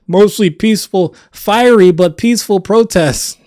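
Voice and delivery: mock news-anchor irony, rising on fiery; sarcastic mock quote. Commentator mocking the media's protest spin, sarcastic. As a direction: sneer the phrase like a media spin.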